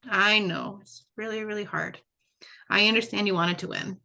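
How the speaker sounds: tender parent reassurance; gentle comforting voice. Shown as a demonstration. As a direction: soothe them, dropping to a whisper on hard. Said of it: "say something like".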